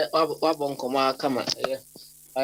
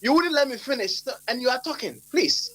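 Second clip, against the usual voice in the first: frustrated plea; 5 semitones higher than usual. Real, not acted. Host frustrated at interruption.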